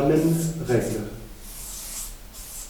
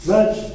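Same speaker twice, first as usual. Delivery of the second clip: magic with MA said higher and louder; stress on MA; 7 semitones higher, 5 dB louder than usual. Shown as a demonstration. Teacher demonstrating the ic suffix to students, stressing MA. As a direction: punch the MA of magic. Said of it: "ça nous donne".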